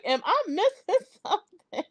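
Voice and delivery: high, puzzled question broken by a laugh; giggling through a mock-baffled question; laughing retold confusion. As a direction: replay your own confusion with a giggle. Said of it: "I'm like".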